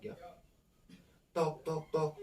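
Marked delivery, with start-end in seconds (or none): 1.3-2.1 short, separated knock sounds; imitated knocking. Knocking heard in the girls' room downstairs, imitated knocks. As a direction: voice the knocks one by one. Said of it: "itu juga ada yang ngetok-ngetok".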